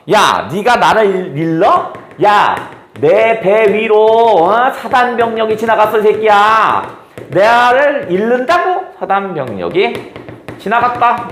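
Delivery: a tough woman firing back at her captor; fierce and rough. Acted. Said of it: "아주 드세게 나오는 겁니다".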